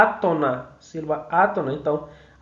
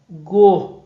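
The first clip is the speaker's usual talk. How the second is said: "gorjeiam" with JEI stretched long and louder; tonic syllable drawn out; 7 dB louder than usual. Shown as a demonstration. Teacher singing out syllables to find the stressed one, JEI held long. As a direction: hold the middle syllable of "gorjeiam". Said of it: "eu passo mais tempo".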